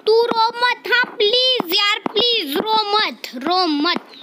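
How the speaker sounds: high, urgent plea not to cry; pleading. Pretend. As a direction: beg her to stop crying. Pleading with crying girl.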